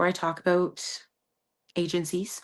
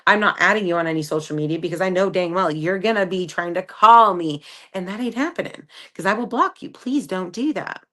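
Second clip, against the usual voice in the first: louder, firm, each line shut down; firm rejection; 4 dB louder than usual. Retold or imitated. Rejecting a pushy guy, a firm loud brush-off. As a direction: lay down the law, no budging.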